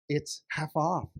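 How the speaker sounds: "half off" drawn out a little; slow reveal on "half off"; drawn-out announcement. Acted. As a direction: announce "half off" as one slow, unbroken phrase. Wife first announces the discount.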